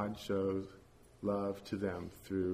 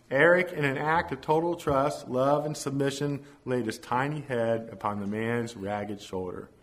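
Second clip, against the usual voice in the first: measured, emphatic story reading; story narration; 3 semitones higher, 6 dB louder than usual. A narrator's reading. Preacher reads congregation a story of a ragged man, storytelling. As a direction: read the tale out with deliberate pauses.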